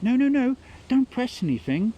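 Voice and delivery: high, loud no no no; frantic old nan yelling; panicked shout. Retold or imitated. Nan panics stopping the reset.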